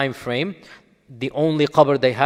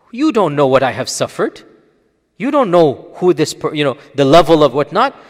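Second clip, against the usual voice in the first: a retold harsh reply, getting louder; harsh retort; 6 dB louder than usual. Grieving widow snapping at a stranger, harsh and rising. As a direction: voice the grieving woman lashing back, building in volume. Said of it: "she said something very harsh".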